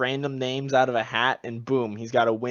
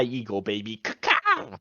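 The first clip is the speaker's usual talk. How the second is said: mock eagle screech; 3 semitones lower than usual. Mock patriotic eagle screech in bit.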